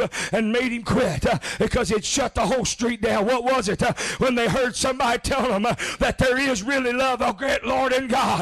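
rhythmic preaching cadence, steadily rising; building preaching. Real, not acted. Preacher retelling his cousin's street sermon, building preaching. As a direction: drive each phrase on with a punched breath.

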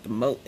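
"moat" for remote, first syllable dropped; casual one-syllable "moat"; remote run together. Real, not acted. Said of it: "I be saying it so fast".

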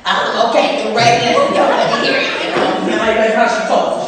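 loud, raspy smoker's voice; raspy casting lady. Acted. Casting woman sorting the line-up, imitated raspy smoker's voice. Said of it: "white woman with a raspy voice".

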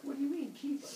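put-on high-pitched kids protesting; indignant children. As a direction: play the kids, high and taken aback. Children voiced, alarmed at father's remark.

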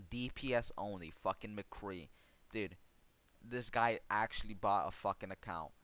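exasperated gamer rant; heated rant. Real, not acted. Ranting about account buyer.

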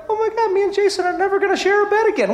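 fast, high rush of dismay; retold shock. Pastor recalling his wedding night realization about his brother. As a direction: blurt it out in sudden realization. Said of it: "I'm like".

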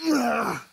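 high strained groan; effort groan. Real, not acted. Straining through many push-ups.

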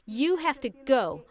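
reenacted firm command to a demon; great assurance. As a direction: cast it out with conviction, pausing between commands. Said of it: "I said it like that with great assurance".

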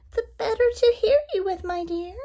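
high sly wolf in granny guise; sneaky wolf faking sweetness; werewolf. A narrator's reading.

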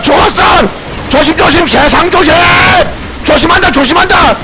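high, insistent combat shouting; urgent shouted orders. Real, not acted. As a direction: yell warnings to the team. 전투 중 다급한 지시. (다급하게 외치는 전투 지시)

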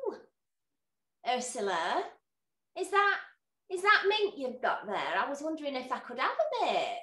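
put-on sweet old lady asking over the wall; old neighbour's voice. Old neighbour asks over the wall for mint, lightly voiced. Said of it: "this voice comes over the wall".

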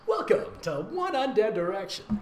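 fun house host. Pretend. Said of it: "Like it's a fun house".

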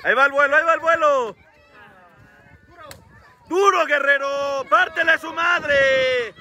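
high yelling. Real, not acted. Cheering a wrestler ringside.

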